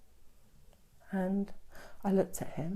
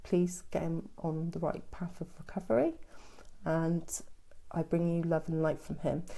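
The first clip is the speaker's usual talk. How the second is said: soft, quieter prayer to an archangel; little prayer; 5 dB quieter than usual. Real, not acted. Medium prays for a viewer's son, soft prayer. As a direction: pray gently for her son. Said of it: "I'll do a little prayer now".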